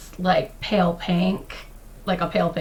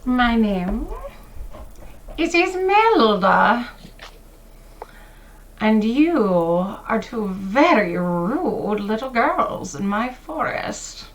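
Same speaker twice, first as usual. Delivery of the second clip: menacing witch; slower than usual. Acted. Witch introduces herself menacingly.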